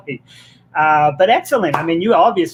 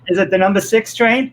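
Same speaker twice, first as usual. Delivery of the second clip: slightly higher New York parody question; mock New York accent; 4 semitones higher, 3 dB louder than usual. Host continuing the train bit, playful New York accent. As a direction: ask like a joking New Yorker. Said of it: "tease my, my New York friends".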